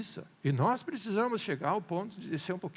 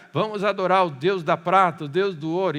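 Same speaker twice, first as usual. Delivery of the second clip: louder, mock-celebratory proclamation; imitating boastful worshippers, raised voice; retold revellers' toast; 7 dB louder than usual. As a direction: proclaim it like revellers hailing their idols. Acted revellers worshipping idols, loud.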